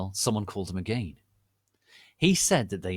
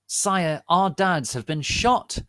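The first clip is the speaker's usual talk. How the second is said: high, loud urgent plea; urgent report; 9 semitones higher, 9 dB louder, slower than usual. Acted. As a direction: tell him in distress. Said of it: "Draco said".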